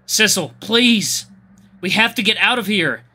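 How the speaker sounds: pleading. Acted. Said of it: "gave him a pleading look".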